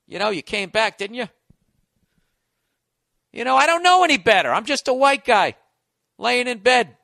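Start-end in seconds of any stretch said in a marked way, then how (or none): 3.3-7.0 mock clueless white guy.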